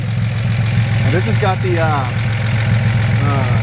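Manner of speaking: halting, stumbling over words; stuttering. Real, not acted. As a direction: stutter and search for the word. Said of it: "Sorry, I'm stuttering there".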